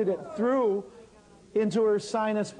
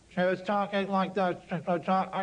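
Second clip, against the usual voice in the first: imitating someone with sealed sinuses; mimicking a patient's congested voice; blocked-nose voice. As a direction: talk as if the nose is fully stopped up.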